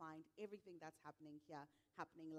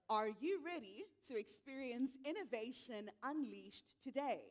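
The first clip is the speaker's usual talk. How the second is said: loud, high-pitched hype shout to the room; big emcee rallying cry; rousing crowd call; 5 semitones higher, 8 dB louder than usual. Real, not acted. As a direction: fire up the audience, louder and higher. Retry to rouse the audience.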